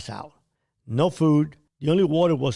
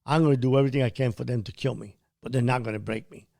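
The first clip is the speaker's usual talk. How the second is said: tearful vow; 3 semitones lower, 3 dB quieter than usual. Retold or imitated. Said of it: "I started weeping in my state of subconscious".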